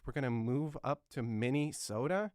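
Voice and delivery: retold bafflement, rising at the end; confused question. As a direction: ask it as a puzzled kid would, lightly. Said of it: "I was really confused".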